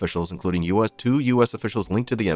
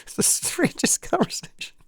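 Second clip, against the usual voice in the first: whispered aside. Real, not acted. Whispered aside after story.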